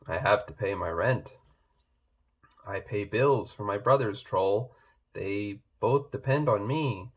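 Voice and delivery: a gently glum troll; a hint of a grumbly troll. Troll explains his burdens.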